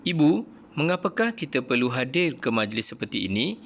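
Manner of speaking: a hint of a curious girl asking; mild questioning lilt; lightly voiced Aina. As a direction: ask it like a puzzled child. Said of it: "tanya Aina".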